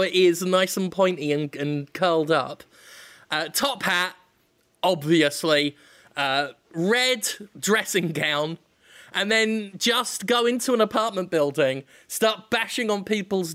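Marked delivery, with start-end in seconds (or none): none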